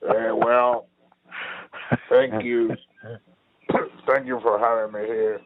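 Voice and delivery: a hint of a tipsy Zelensky thanking the host; mock Zelensky. Friend mocks Zelensky's interview voice, lightly imitating. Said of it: "He's got a weird voice".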